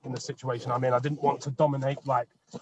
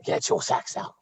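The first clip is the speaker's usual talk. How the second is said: squeaky high echo; slower than usual. Pretend. Echoing the sax joke back.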